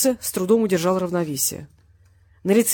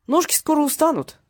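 good-natured; 8 semitones higher, 3 dB louder than usual. A narrator's reading. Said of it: "добродушным голосом произнёс он".

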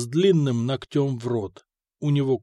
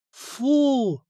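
high, stretched scoff; drawn-out disgust; 10 semitones higher than usual. A narrator's reading. Mikha hears his share is a twentieth, drawn-out scoff. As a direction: drag out the syllable in disappointment. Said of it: "протянул Миха".

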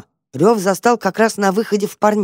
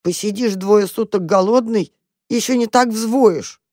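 sad; 5 semitones higher than usual. Acted. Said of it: "грустно сказала крышка".

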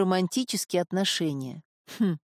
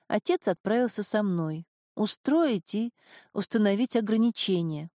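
put-on lightly raised girl's voice; young woman voice. Marin voiced by narrator.

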